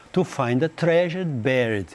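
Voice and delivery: slow careful reading aloud; slow classroom reading; slow English reading. Shown as a demonstration. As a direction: read it out word by word for the class. Reads English line slowly.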